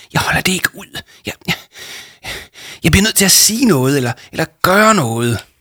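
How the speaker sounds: uneasy, halting, high-pitched, restless stammer on repeats. Jama answers Arthur, who has asked what is wrong, stammering restlessly. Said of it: "stammede Jama uroligt".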